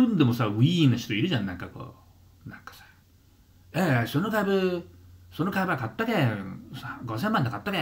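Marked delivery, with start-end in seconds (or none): 3.7-7.8 boastful investor imitation. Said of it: "みたいな".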